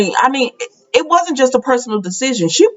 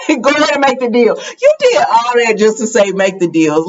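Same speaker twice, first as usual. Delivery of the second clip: exasperated outburst. Retold or imitated.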